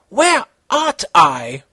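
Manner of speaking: scared. Acted. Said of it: "Konata asked, scared".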